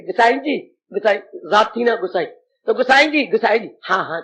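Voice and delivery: softly imitated affectionate wife; very loving. Mother calls father "Gusai ji", very lovingly. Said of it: "अब मेरी माँ बड़े प्यार से कहती".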